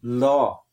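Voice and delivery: law said as in Ulster, open aw; Ulster pronunciation. Shown as a demonstration. Teacher gives the Ulster pronunciation law. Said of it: "we would say".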